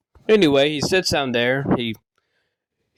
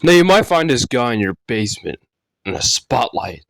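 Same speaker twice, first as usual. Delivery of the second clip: mock-ominous storyteller, loud with dropping pitch; punchy, dramatic scary-story intro; creepypasta narration; 4 semitones lower, 4 dB louder than usual. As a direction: read it like a campfire horror tale.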